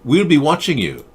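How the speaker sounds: Greta impression. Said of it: "working on my Greta impersonation".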